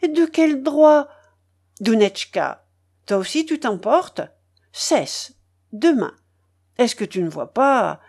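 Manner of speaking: loud, alarmed stammering; mild frightened stammer. A narrator's reading. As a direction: blurt it out in fright. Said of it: "balbutia la mère avec effroi".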